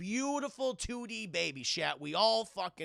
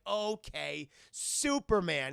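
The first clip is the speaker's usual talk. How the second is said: put-on drawn-out, louder kid's reply; boy playing along; 3 dB louder, much slower than usual. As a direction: imitate a boy accepting the game. Boy answering giant, retold.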